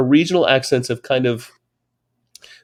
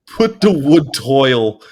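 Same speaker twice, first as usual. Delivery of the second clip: slow, half-laughing repeat of "Put the wood toil"; baffled listener echoing the Yorkshire phrase with a laugh; 2 semitones higher, 4 dB louder, much slower than usual. Retold or imitated. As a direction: puzzle over the phrase while giggling. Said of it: "And I'm like".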